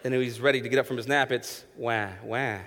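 emphatic, quick explaining. Retold or imitated. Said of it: "She's like".

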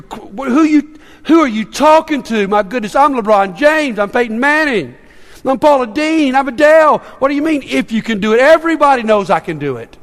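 mock-indignant celebrity; hammed-up offended star; affronted. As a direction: bristle at being doubted, stumbling at first. Stars acting affronted at doubters.

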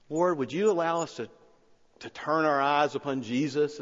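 earnest pastoral prayer, rising in fervour; heartfelt prayer voice that swells; closing prayer. Acted. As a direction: pray it from the heart, building towards the petitions.

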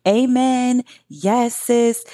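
high, eager amen; excited agreement. Pretend. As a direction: cheer it like church. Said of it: "get ready to just be like".

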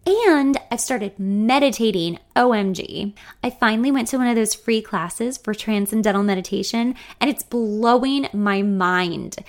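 breathless gushing; gushing excitement. Acted. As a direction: rave about it eagerly. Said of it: "She sounds unusually expressive today".

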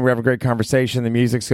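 imitating a partier having a blast; excited partier. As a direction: rattle it off like a thrilled clubgoer. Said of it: "like, when the just fucking".

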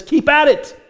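God commanding his weary people to keep building, ringing out. Acted. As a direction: proclaim it as God urging them on. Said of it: "the word of the Lord comes to them and says".

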